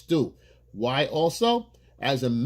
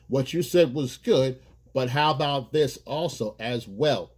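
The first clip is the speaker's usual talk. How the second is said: slower, measured "what you said was good"; slow, deliberate suggestion; slower than usual. Shown as a demonstration. Man slowly, deliberately adding his idea to hers. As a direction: lay it out slowly and calmly. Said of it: "you bring it in".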